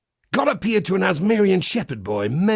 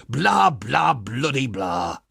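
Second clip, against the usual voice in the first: dismissive mockery; 2 semitones lower, slower than usual. Mocking the official Templar history.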